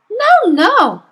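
high, loud urgent protest; crying out. Acted. Teacher cries out in protest to the headmistress, high and loud. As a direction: cry out to stop her. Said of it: "Miss Honey cried out".

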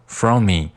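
"from me" run together on one shared m; linked words. Shown as a demonstration. Teacher demonstrating liaison, "from me" joined as "fro-me". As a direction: merge the m's in "from me". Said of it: "from和me进行连读".

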